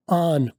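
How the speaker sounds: आन, aren't with no t; "आन" with a long a and no t; aren't said as aan; weak aren't. Shown as a demonstration. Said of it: "टी नहीं बोला जाएगा".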